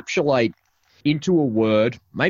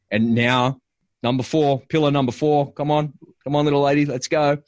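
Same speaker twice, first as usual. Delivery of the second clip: higher, building excitement; excited hype; 5 semitones higher than usual. Real, not acted. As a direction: pump it up like a game-show host. Excited build-up to pillar four.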